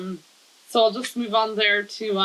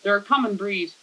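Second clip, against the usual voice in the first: measured, lightly performed poetry reading; poem reading. Acted. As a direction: read your poem aloud in even, paused phrases. Reads a second poem aloud.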